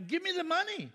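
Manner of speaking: hammed-up demand for money; mock angry demand. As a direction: imitate the customer snapping for cash. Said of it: "they got mad".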